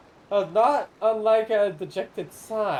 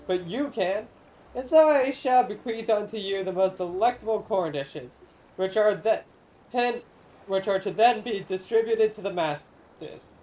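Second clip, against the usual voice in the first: lightly voiced grand old spirit, solemn and theatrical; ancient corn spirit. Corn spirit pleading with the traveler to feed the people, lightly grand. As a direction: speak as a lofty forgotten guardian of the harvest.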